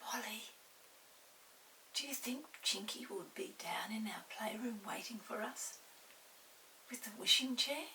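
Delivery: soft, hushed secretive question; low voice. Acted. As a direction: keep it quiet so no one hears. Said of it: "in a low voice".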